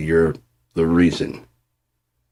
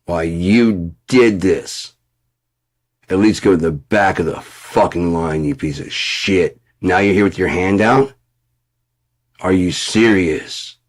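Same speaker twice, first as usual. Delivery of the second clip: mock furious telling-off. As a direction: chew him out with contempt. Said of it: "they'd be like".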